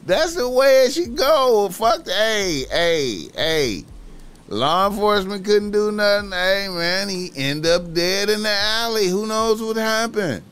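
high and loud, relishing it; gleeful high rant. Acted. Gleeful high ranting about justice.

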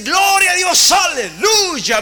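high, loud shouted praise, aleluya stretched slow. Acted. Townspeople who should have praised God, loud joyful shout. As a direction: cry out glory to God.

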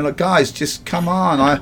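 pleading in panic. Retold or imitated. Newcomer begging the two men to stop, frantic. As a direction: beg them to stop fighting. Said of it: "I'm going".

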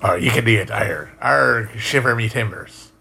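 lightly voiced Cornish pirate with rhotic R's; Cornish pirate accent. Shown as a demonstration. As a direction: roll out a mild West Country pirate accent. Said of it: "Cornish accent is the closest thing to a pirate".

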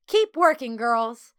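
high, loud call over the shoulder; yelled order. A narrator's reading. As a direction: yell a command to the whole room. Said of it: "Over her shoulder, she yelled".

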